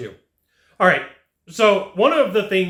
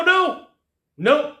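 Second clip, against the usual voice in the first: high, louder quick refusal; high-pitched no; 11 semitones higher, 3 dB louder than usual. Shown as a demonstration. Salesman showing the easiest way to refuse, high-pitched no.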